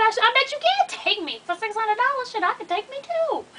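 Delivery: retold indignant refusal. Retold refusal of costly ambulance ride.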